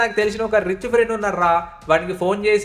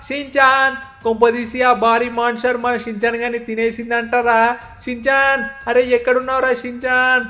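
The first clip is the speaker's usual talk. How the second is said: worried calling out; 2 semitones higher than usual. Acted. Uncle calls out for lost nephew.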